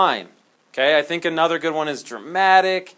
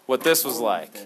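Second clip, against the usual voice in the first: dramatic grandpa; 5 dB louder than usual. Retold or imitated. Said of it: "They're really dramatic".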